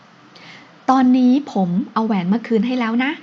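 slow, drawn-out wheedling plea; coaxing drawl. Acted. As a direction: stretch every word to coax her. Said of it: "เขาลากเสียงยาวออดอ้อนเหลือเกิน".

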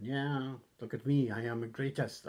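badly faked attempt at a wrestler's accent; lightly put-on boastful wrestler accent; half-hearted imitation of a bragging wrestler's accent; Martel. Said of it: "I can't do his accent".

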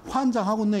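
lightly put-on Jeolla dialect, slightly lifted. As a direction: say it as a mild Jeolla exclamation. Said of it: "전라도 사투리로". (살짝 전라도 사투리로)

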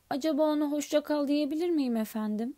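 a big gentle giant answering politely; Hagrid's voice. Acted. Hagrid asks to say goodbye.

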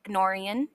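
"gnorian" with the G sounded before N; G-N cluster. Shown as a demonstration. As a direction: keep the hard G in "gnorian". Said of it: "G N".

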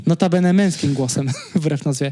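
stiff robotic text-to-speech; Iwona speech synthesizer. Retold or imitated. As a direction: read it like an old voice synthesizer. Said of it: "udawał właśnie syntezator mowy Iwona".

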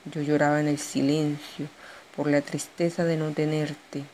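measured poetry reading with pauses between verses; poem recital. Acted. Poet shares her own poem with an audience, poem recital.

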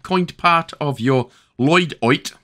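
"Lloyd Oit" drawn out in a silly voice; playful mispronunciation. Pretend. Walkthrough host clowning with a word, silly mispronunciation. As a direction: stretch the vowels of "Lloyd Oit". Playful distorted pronunciation of loadout.

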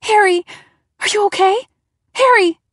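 high, loud panicked calls; frantic shouting. A narrator's reading. Narrator shouts to Harry in his room, panicked. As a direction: yell his name in terror.

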